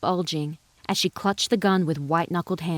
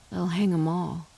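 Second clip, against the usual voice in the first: upset; 3 dB quieter than usual. A narrator's reading. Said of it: "He sounded so upset".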